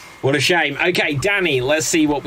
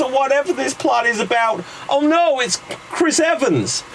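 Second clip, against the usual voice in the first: put-on higher, fast awkward teen voice; nervous teen; 7 semitones higher than usual. Scott Pilgrim dumping his girlfriend, higher jittery babble.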